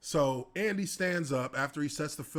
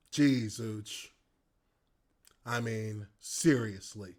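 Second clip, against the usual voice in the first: lower, mildly exasperated; a touch of exasperation; 5 semitones lower, slower than usual. Retold or imitated. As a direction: shake your head at him. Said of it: "looking at me just like".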